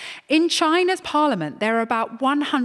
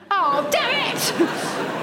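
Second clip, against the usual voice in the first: mock frustration; 8 semitones higher, much slower than usual.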